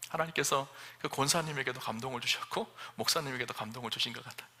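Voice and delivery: ordinary delivery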